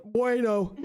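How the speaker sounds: imitating a word coming out in a burp. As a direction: burp the word out, then crack up. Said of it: "in a burp, I go".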